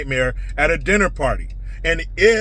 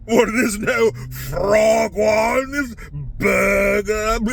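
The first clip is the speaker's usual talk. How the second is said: mock de Blasio; slower than usual. Mocking de Blasio tasting food.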